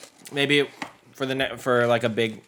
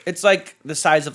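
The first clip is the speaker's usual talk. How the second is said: laughing; 8 semitones higher, 7 dB louder, slower than usual. Real, not acted. Laughing over tiny chip.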